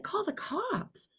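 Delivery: high, hushed, drawn-out disbelief; incredulous echo. Retold or imitated. Driver answering the woman's police threat, incredulous.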